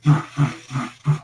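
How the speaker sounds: rapid fluttering noise in bursts; repeated short breathy flutters; imitated creature noise. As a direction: voice the sound of something approaching. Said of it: "you start hearing this".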